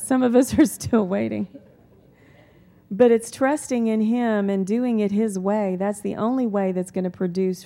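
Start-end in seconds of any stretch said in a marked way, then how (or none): 0.0-1.5 chuckling through the words; rueful laugh about waiting long. Real, not acted. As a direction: laugh it out, knowing the room shares it. Preacher laughs at long wait.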